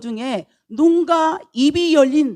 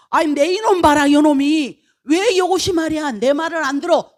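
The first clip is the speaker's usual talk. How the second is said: raised-pitch mock scolding; acted angry scolding; 4 semitones higher than usual. Balaam scolds the donkey for not listening, acted anger. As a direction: scold like a master fed up with his animal.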